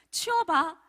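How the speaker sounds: retold caregiver's order; mild command. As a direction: give a brief, firm instruction. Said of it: "제가 명령을 한 거예요".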